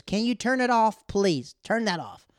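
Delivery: high, loud plea; imitated annoyed girlfriend. Girlfriend asking him to turn it off, pleading loudly. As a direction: beg over blaring music. Girl objecting over music, imitated.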